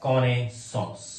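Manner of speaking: Connaissance drawn out syllable by syllable; very slow model word. Shown as a demonstration. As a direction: stretch Connaissance slowly for learners. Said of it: "slow model word for learners". (बहुत धीरे, सिखाने के अंदाज़ में)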